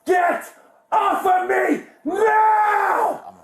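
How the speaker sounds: drawn-out furious yell, slow; angry shout. Real, not acted. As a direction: roar it at them. Arrested man yelling at officers.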